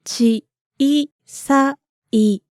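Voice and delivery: each syllable of ちいさい drawn out slowly; slow model reading. Shown as a demonstration.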